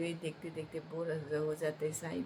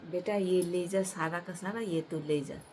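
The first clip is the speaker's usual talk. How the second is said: generous call; 2 semitones higher, 5 dB louder than usual. Acted. Deity generously gives all liquor.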